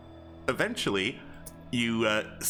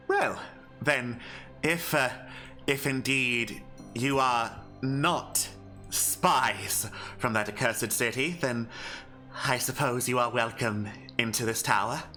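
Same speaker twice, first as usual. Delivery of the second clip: put-on very old man. Hermit relents, admits them.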